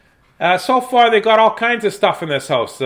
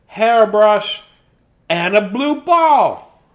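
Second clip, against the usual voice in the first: cheerful storybook mouse showing off the house. Acted. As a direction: chirp it out like a little mouse. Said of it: "this is the mouse voice there".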